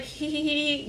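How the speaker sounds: high imitated "hee hee" titter; mock giggle. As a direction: giggle like friends sharing a joke. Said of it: "They're laughing with their friends".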